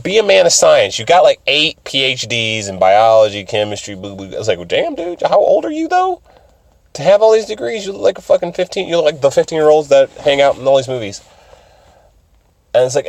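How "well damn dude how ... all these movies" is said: high incredulous voice. Retold or imitated. Retelling his own reaction.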